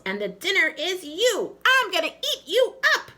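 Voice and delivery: high, loud laughing menace; evil skeleton laughing through the threat; cackling skeleton. Acted. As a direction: cackle as you threaten to eat him. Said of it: "he cackled".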